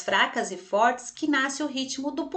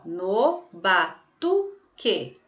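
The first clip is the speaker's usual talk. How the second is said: very slow, separated "no ba-tu-que"; syllable by syllable; 2 semitones lower, much slower than usual. Shown as a demonstration. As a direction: split batuque into its syllables, slowly. Shows syllables to mark strong, weak. (sílaba por sílaba, bem devagar)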